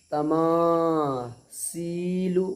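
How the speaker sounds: slow तमासीलु with a clear hissed s; wrong seen sound. Shown as a demonstration. Teacher showing the mistaken reading, long s sound. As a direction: stretch तमासीलु, making सी a plain "see". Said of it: "सीन बन जाएगी".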